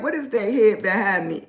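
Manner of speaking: mock viewer question through a laugh; chuckling as the puzzled audience; laughing viewer quote. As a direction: laugh while imitating the viewers. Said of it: "Everybody like".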